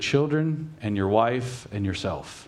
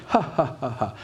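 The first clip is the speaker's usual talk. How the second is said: mock ha ha; 3 semitones higher than usual. Shown as a demonstration. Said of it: "it doesn't mean like".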